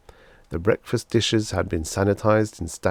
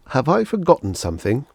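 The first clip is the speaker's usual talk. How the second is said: asked out loud; 6 semitones higher, 4 dB louder than usual. A narrator's reading. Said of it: "he asked out loud".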